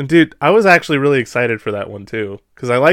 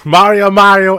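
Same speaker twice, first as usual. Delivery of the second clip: movie quote voice; 7 semitones higher, 7 dB louder than usual. Retold or imitated.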